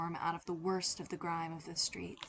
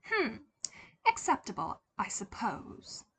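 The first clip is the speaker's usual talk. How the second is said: sniffy approval; 2 semitones higher than usual. Acted. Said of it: "she sniffed".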